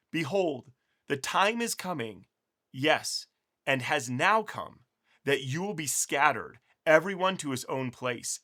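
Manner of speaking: slow, solemn Bible reading; scripture reading. Acted. Teacher reads Jesus's farewell words to viewers, slow and solemn. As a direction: let each phrase land slowly.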